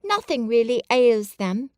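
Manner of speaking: a hint of a frail boy; lightly voiced Colin.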